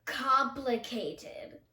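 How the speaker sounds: very slow, drawn out. Shown as a demonstration. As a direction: stretch every syllable of Complicated. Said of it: "You can make them complicated".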